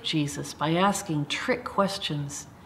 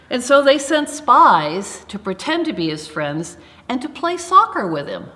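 playful tease; 6 semitones higher, 6 dB louder than usual. Acted. Deliberately wrong silly story line.

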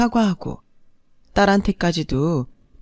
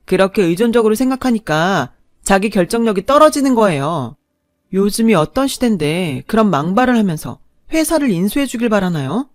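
cold anger. Acted. Wife lecturing her mother-in-law, cold indignant anger. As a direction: put her firmly in her place.

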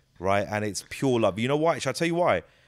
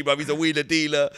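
imitated Nigerian accent; 3 semitones higher than usual. Nigerian fan telling the comic about his uncle, imitated Nigerian accent. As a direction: put on a Nigerian fan's accent. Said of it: "I got Nigerian brothers came up to me".

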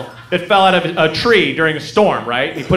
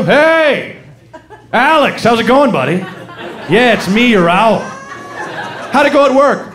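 lightly voiced taunting owl, pitched up; mock-friendly taunting; 4 semitones higher than usual. Caged owl to owner home from work, taunting. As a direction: needle him with fake chumminess. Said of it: "he's just taunting you".

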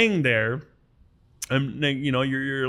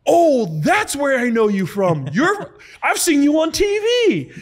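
high, loud, drawn-out call across the room; retold yell; 13 semitones higher, 7 dB louder, slower than usual. Nurse recognizing the patient from TV, blurting out in a loud high voice. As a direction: blurt it out loud like an excited nurse at her computer. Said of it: "She just yells out".

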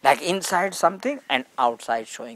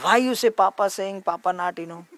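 raised, higher-pitched retold scolding; angry father; 6 semitones higher than usual. Father questioning his three-year-old about her words, angry. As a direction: act out a father demanding an explanation. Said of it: "very angry".

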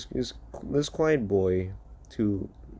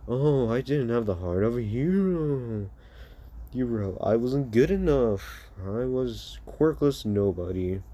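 mocking. Quirkless son mocking his hero father, mock lament. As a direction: taunt him with exaggerated woe. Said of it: "continued to mock his father".

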